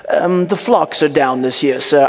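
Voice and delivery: put-on British servant voice; hesitant report in a mock British accent. Butler reporting bad news to Potiphar, British accent. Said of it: "but he has a British accent".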